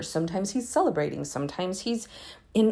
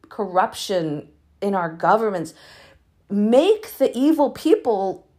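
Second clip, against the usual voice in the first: fervent cry to God. Shown as a demonstration. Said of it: "maybe we're supposed to cry out to God like this".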